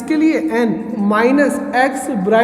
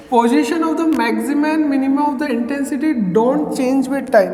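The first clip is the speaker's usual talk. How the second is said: slow dictation; much slower than usual. Shown as a demonstration. Teacher dictating definition.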